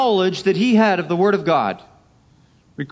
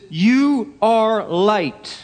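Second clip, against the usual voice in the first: YOU drawn out and strong; slow, weighty declaration with a strong YOU; emphatic YOU; much slower than usual. Acted. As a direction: lean hard on YOU, word by word. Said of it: "the you is very strong".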